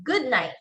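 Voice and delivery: "good night" rising then sliding down; slide intonation. Shown as a demonstration. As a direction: glide down through "night" after a lift. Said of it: "There is a slide".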